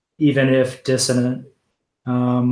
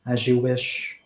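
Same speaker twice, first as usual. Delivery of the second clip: softer, understated quiet reply; 5 dB quieter than usual. Acted. Wesen to dying Aldura, head bowed, quiet. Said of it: "quietly says".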